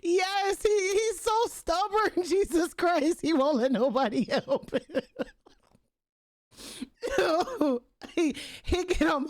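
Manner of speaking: high, breathless laughing talk; wheezing with laughter. Real, not acted. Streamer cracking up over stubborn granddad, laughing. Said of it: "I'm laughing so hard".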